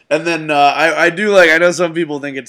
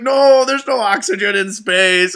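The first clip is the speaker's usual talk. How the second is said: slow, higher mock dismay; claymation Albert Einstein; 5 semitones higher, 3 dB louder, slower than usual. Claymation physicist watching someone blow up, mock dismay. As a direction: lightly act a let-down scientist. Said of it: "Albert Einstein's getting all sad".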